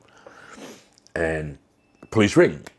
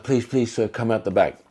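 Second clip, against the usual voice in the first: higher-pitched mimicked pleading; imitated placating plea; 4 semitones higher than usual. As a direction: imitate an urgent, polite plea without raising volume. Shop lady placating angry customer.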